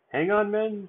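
high, loud call to hold on; shouting. Acted. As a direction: shout it to the other dwarfs. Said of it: "Doc shouted".

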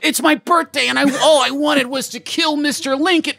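high crying shout; death cry. Pretend. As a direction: wail your dying wish. Dying soldier's death cry.

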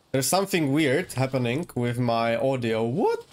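muffled audio like talking underwater. Real, not acted. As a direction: sound as if heard through water. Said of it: "in a swimming pool or something, trying to talk underwater".

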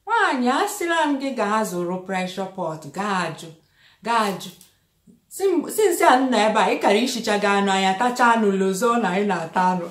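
mock the friend's Imo Igbo scolding; Imo Igbo accent. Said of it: "She has this lovely Imo accent".

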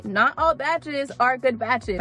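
slow, drawn-out "Not all batches are good batches"; say-along emphasis. Shown as a demonstration. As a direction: lead the listeners through it word by word. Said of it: "Say it with me".

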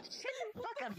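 laughing. Real, not acted. Laughing retort.

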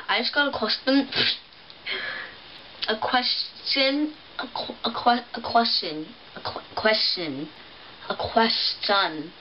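words slurred round a retainer; struggling to say question with a retainer; wearing a retainer. Real, not acted. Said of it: "This retainer is really annoying".

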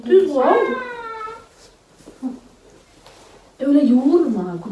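loud, high correction; sharp correction. Real, not acted. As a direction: correct her firmly and fast. Hamur yoğurmayı düzeltiyor. (yüksek sesle düzeltme)

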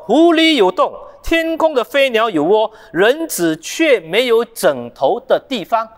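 proclaiming Jesus' words. Acted. Preacher booms out Jesus' reply to the eager follower, proclaiming. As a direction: announce it like a solemn pronouncement.

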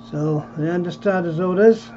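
horse race commentary building to the finish; race caller. Acted. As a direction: call it like the final furlong at Ascot.

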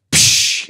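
whip crack sound. Retold or imitated. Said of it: "pop that whip again".

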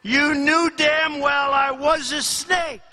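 emphatic villain's punchline, starting high; triumphant scorn, settling at the end; gloating retort. Acted. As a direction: deliver it with a grinning sneer. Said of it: "said the reptile with a grin".

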